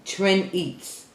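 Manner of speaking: "Trend Eats" said as two words, trend then eats, h silent; careful name try. Shown as a demonstration. To a subscriber on the channel, saying "Trend Eats" with silent h. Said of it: "I'm gonna try one more time".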